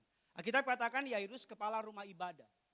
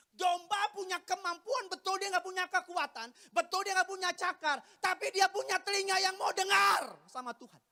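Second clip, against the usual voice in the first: high, loud preaching building to a shout; full-force preaching; 9 semitones higher, 9 dB louder than usual. Real, not acted. Preacher telling congregation what sheep can do, impassioned shout. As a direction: drive each point home, rising to a shout.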